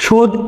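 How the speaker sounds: সহ্য split slowly into "shoj" and "jho"; syllable-by-syllable pronunciation. Shown as a demonstration. Teacher writing out the pronunciation, সহ্য said in separate syllables. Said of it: "উচ্চারণ লিখবো আমরা".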